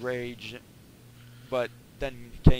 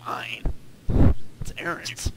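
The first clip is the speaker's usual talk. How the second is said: whisper; slower than usual. Real, not acted. Whispered reply to cohost.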